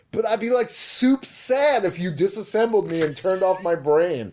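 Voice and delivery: mock sweet android pleading; whiny robot girl. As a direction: whine like a sad little robot. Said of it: "she's like".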